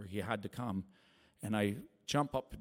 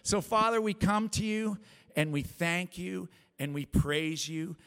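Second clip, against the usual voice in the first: raised, loud praying voice; higher-pitched, fervent public prayer; 6 semitones higher, 6 dB louder than usual. Real, not acted. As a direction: lift your voice to God in prayer. Leads closing prayer.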